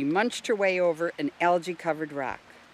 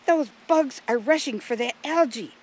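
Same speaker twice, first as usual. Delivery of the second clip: higher, louder, eager voice; excited Jill; 7 semitones higher, 5 dB louder than usual. A narrator's reading. Jill showing Russell the rushing bugs, excited. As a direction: point it out in a high, excited voice.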